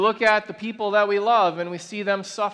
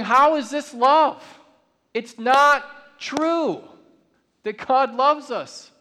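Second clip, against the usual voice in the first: raised, slow, pained cry of doubt; anguished protest; 4 semitones higher, 3 dB louder, much slower than usual. Retold or imitated. Preacher voicing a grieving listener's doubt, slow and pained. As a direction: plead it slowly, as someone who has watched a loved one suffer.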